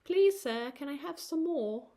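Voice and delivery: high British orphan plea; mock British begging; British accent. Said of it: "that song popped in my head".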